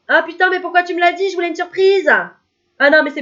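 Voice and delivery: high, loud mock outrage; mock outraged girlfriend. Girlfriend to partner, hammed-up angry complaint. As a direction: whine that the surprise is ruined. Girlfriend upset about the spoiled surprise.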